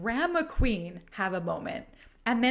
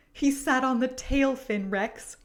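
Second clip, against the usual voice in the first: gasping outrage; 4 semitones higher than usual. Acted. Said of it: "clutches the blanket tighter and gasps".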